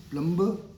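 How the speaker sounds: 'प्लम्बर' with the b sounded; wrong pronunciation. Shown as a demonstration. Teacher asks learners, mistaken B sounded. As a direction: say 'प्लम्बर' as plum-ber, voicing the b. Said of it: "this is wrong pronunciation".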